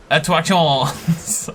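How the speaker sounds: loud, drawn-out mock Italian; hammed-up Italian; terrible Italian accent. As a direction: call it out slowly in a bad Italian accent.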